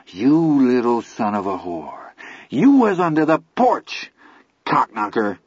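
furious. Acted. Billy curses Vern.

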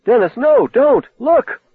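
high, loud panicked shout; high frantic cry out, terror in it. Acted. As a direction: scream a warning at him. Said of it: "Lee suddenly cried out".

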